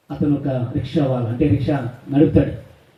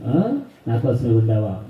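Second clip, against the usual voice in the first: put-on sneering drunk husband; 5 semitones lower, slower than usual. Drunk husband sneering before violence.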